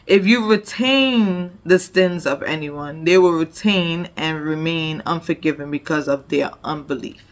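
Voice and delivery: scripture reading. Acted. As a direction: proclaim the verses to the congregation. Reads scripture aloud.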